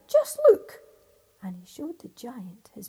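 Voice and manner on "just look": much higher, much louder boast; defiant shout. Acted. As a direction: shout it proudly up at him. Tailor shows off to giant.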